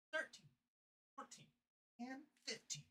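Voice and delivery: counting push-ups, winded; breathless counting; out of breath. Real, not acted. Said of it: "'cause I'm out of breath".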